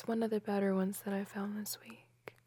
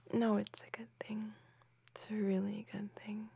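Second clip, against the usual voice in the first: whispering. Acted. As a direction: breathe it close and hushed. Whispered girlfriend roleplay.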